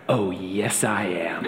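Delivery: a mother settling it in four words; stern mom. Retold or imitated. Trina putting the defiant boy in his place, low and firm. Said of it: "she goes".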